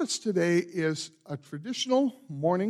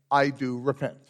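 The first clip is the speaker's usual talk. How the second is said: modelled response; 3 semitones lower than usual. Shown as a demonstration. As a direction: show them the words to answer. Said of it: "then declare by saying".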